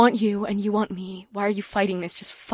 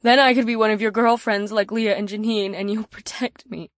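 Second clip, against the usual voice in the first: voice cracking slightly; 13 semitones higher than usual. A narrator's reading. Valerie asking to be protected like his girlfriends, voice cracking slightly. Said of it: "Her voice cracked slightly on protect".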